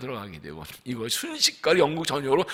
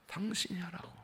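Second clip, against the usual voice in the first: breathy whisper; hushed divine whisper; 15 dB quieter than usual. Acted. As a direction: whisper it like a secret call. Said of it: "God's whisper to the man".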